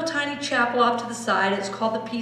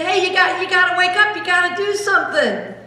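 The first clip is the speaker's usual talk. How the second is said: higher and louder, urgent; panicked disciples; 9 semitones higher, 5 dB louder than usual. Acted. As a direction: urgently wake him up.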